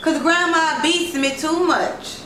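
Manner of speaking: high, slow, mock-tragic little girl; dramatic child. A narrator's reading. Girl announces to the driver she is dying, slow and hammed-up. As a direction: ham up the despair like a child actress. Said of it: "Isis declared dramatically".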